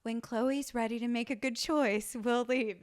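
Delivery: even, unbothered parental patience; mock a parent who never gets rattled; imitating chill parent. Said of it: "is annoyingly chill".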